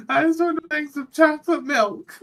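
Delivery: high, put-on innocent pilot voice. Pilot announcing he wants chocolate milk, high goofy voice.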